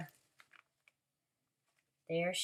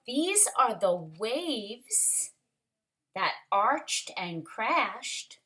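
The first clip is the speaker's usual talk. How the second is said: put-on lively read-aloud for children; story reading. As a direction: read it like a picture book to the class. Story narration continues.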